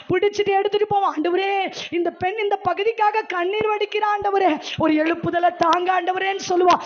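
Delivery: insistent preaching, pressing on without letup; urgent exhortation. Real, not acted. Preacher calling congregation to pray with tears, urgent exhortation. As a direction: urge the congregation into prayer.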